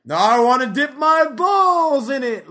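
Louis delivering his catchphrase to the room; deadpan Louis catchphrase. Retold or imitated. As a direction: savor the catchphrase slowly. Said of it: "all they do is like".

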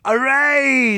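hammed-up Portuguese accent. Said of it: "You go ahead and do a Portuguese accent".

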